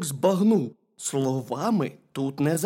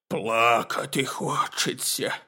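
slow, lower bear voice; tearful bear cub; 3 semitones lower, slower than usual. A narrator's reading. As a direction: say it slowly as a weepy little bear. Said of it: "ведмедик заплакав".

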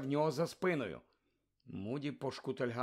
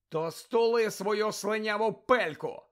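contemptuous; 7 semitones higher, 4 dB louder, slower than usual. Acted. Harry snapping back.

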